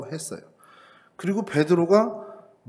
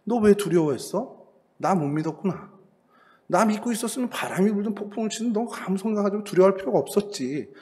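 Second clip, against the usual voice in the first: gentle reproach; 5 semitones higher than usual. Retold or imitated. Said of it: "주님께서도 그 얘기겠구나".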